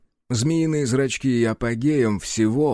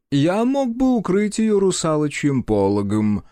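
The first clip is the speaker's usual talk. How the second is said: disgustingly calm; 6 semitones higher than usual. Acted. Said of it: "отвратительно спокойным тоном".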